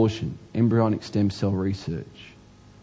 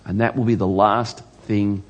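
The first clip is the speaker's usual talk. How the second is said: prophetic warning; slower than usual. Acted. Jeremiah warning the king in court, slow grave pronouncement. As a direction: spell out the sentence with heavy pauses. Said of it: "The next bit of it is this".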